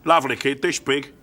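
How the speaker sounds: lightly voiced London doorman; understated Cockney proud dad; London bouncer. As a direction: boast mildly like a Cockney bouncer. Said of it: "He's a lovely bloke".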